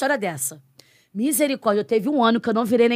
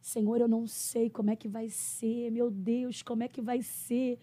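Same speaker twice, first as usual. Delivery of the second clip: soft anxious prayer; 2 semitones higher, 6 dB quieter, slower than usual. Retold or imitated. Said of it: "virei o ano esse ano chorando".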